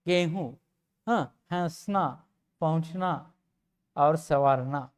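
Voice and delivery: गेहूँ, हंसना, पहुँचना, संवारना with lightly nasalized vowels; light chandrabindu nasal. Shown as a demonstration. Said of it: "हल्का उच्चारण यहाँ होता है".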